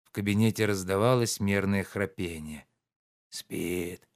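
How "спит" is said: quiet murmur to himself; шёпотом. A narrator's reading. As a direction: say it softly so as not to wake him. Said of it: "прошептал он". (тихо, почти шёпотом)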